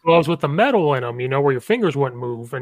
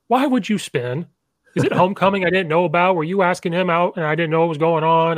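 mock coach rant; 4 semitones higher than usual. Coach chewing out a player on film.

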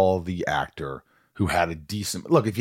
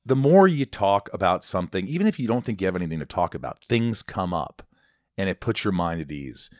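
earnest ad read; earnest host reading a sponsor spot. Acted. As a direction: pitch therapy sincerely.

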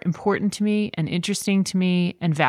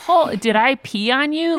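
dawning realization; 3 semitones higher than usual. Retold or imitated. New mother's guilty inner thoughts to mom.

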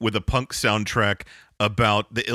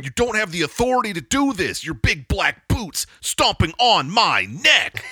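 mock spoken word poet; 8 semitones higher than usual. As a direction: recite it like a pompous beat poet.

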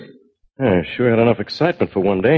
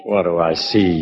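low, muttered parroting of the question; grumbling echo; 8 semitones lower than usual. Retold or imitated. Bill grumbles at Drew's question, grumbling low echo. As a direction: echo it back to yourself, lower. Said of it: "he says".

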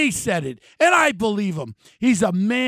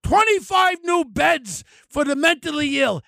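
mocking the governor; 4 semitones higher than usual. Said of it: "Snaggletooth says".

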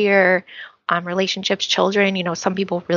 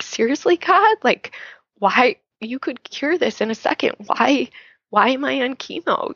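exasperated plea; 4 semitones higher than usual. Retold or imitated. Imagined cancer patient questioning God.

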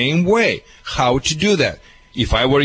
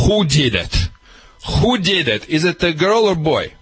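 stern question. Shown as a demonstration. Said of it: "sternly ask him".

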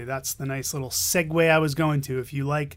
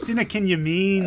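mock Scottish; 4 semitones higher, 3 dB louder than usual. Mock Scottish joke line.

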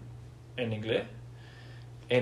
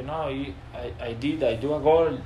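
put-on halting Spanish-accented English; 2 semitones higher than usual. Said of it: "yo hablaba así".

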